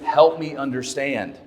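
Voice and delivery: slow, earnest appeal to understand; earnest plea. Retold or imitated. Manager pressing an employee about leaving, earnest and slow. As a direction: draw it out and really mean it. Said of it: "And I really meant it".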